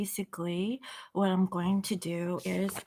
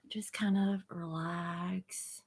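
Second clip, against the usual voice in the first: soft, slow, breathy guiding voice; soothing guidance; 3 dB quieter, slower than usual. Acted. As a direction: ease them into relaxing, slowly and gently. Calming viewers before the meditation.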